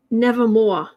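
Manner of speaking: slow, ominous raven-like intonement of "Nevermore."; a touch of spooky Edgar Allan Poe; mock Poe voice. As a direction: intone it like a gothic poet, a bit hammed-up. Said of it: "He probably didn't sound like that".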